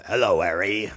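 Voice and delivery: low, lightly voiced Hagrid; a hint of a big gentle giant. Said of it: "Hagrid is like".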